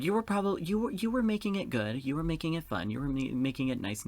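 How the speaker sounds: high, gushing reassurance easing downward; high-pitched reassurance. Pretend. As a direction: start very high and gradually come down. Plays along reassuring the character.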